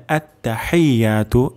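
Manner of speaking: আত্তাহিয়াতু with short tta, then "hai-ya"; correct ha. Shown as a demonstration. Teacher sets the right form before the mistake, correct ha. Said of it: "এমন বলা যাবে না".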